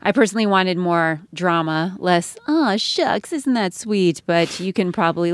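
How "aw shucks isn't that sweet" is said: higher-pitched, put-on aw-shucks cooing; sugary parody, starting high and easing down; mock folksy gushing. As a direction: gush it in mockery of folksy stories. Mocking folksy campaign-book stories.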